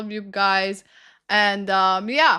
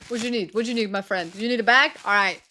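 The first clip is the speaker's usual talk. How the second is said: put-on Moroccan accent. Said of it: "I try to make a Moroccan accent".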